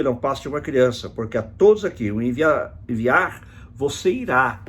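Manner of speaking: emphatic, declaimed Bible verse; scripture reading. Acted. Preacher reads God's answer to young Jeremias, emphatic scripture reading. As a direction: read out God's command with firm emphasis.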